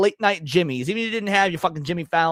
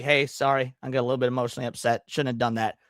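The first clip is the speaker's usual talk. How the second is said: mock British apology; 6 semitones lower, 5 dB quieter, faster than usual. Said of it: "the thing that you Brits always do".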